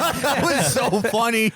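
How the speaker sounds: said through real laughter, drawn out and high; laughing. Real, not acted. Cracking up at a retold tweet, laughing through the words. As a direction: crack up while talking.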